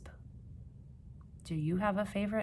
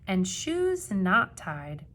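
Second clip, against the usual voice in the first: storybook reading; 4 dB louder than usual. A narrator's reading. Reading picture book to children.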